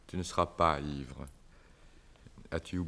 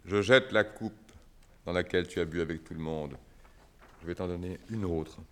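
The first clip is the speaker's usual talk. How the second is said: jealous outburst; 4 dB louder than usual. Acted. Celui jette la coupe, jaloux.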